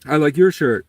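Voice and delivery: thanking him for the compliment, high and sweet; sweet old lady. Retold or imitated. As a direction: gush back like a delighted lady. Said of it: "And she was like".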